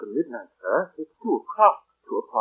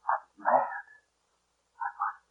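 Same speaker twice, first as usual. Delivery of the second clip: frightened whisper; 4 semitones lower, 7 dB quieter, slower than usual. Acted. Frightened muttering to himself.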